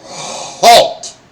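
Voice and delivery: loud barked halt, ordering everyone to stop; guard's shout. Acted. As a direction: bark it out like a sentry. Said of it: "GM voices Bork".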